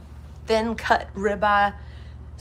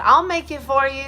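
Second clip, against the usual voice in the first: mild, higher imitation of a kind florist; florist's voice; 6 semitones higher, 5 dB louder than usual. Retelling the florist's offer, a lightly higher sweet voice. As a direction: play the florist, sweet and pitched up. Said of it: "she said".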